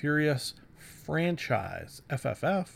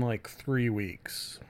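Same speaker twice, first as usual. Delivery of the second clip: sheepish whisper; 3 semitones lower, 5 dB quieter, much slower than usual. Real, not acted. Admitting a long break.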